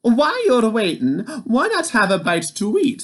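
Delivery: high, bright offering voice; Oogna's voice. A narrator's reading. Wife offering the giant bread, high sweet voice. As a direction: tempt the giant to eat. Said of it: "said Oogna".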